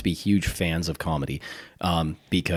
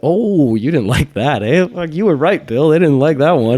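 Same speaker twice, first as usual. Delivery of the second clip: higher, louder mock-cheery host; Leno voice; 8 semitones higher, 7 dB louder than usual. Jay Leno mocking the crowd after a booed joke, cheery. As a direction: shrug off the boos with a grin.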